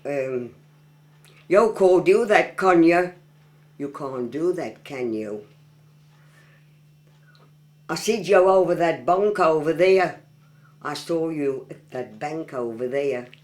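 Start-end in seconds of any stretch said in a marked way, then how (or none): 1.5-3.1 broad Black Country, higher and louder; Black Country dialect. Shown as a demonstration. Local showing off a dialect phrase, broad Black Country. 7.9-10.2 broad Black Country, louder; Black Country dialect. Shown as a demonstration. Local showing off a dialect phrase, broad Black Country.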